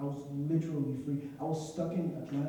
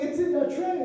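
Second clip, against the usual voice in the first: insistent high call; 14 semitones higher, 8 dB louder than usual. Retold or imitated. Insisting to airport staff.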